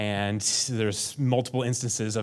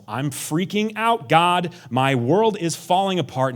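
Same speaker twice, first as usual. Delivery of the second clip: anxious cry; 6 semitones higher, 5 dB louder, slower than usual. Retold or imitated. David's psalm of panic.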